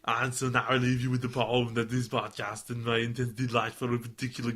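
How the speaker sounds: lightly put-on thick-worded Austrian accent; Arnold Schwarzenegger. Podcaster reads fan's poem introduction, light Austrian accent. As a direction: read it in a loose Austrian accent. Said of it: "No one can understand you in that accent".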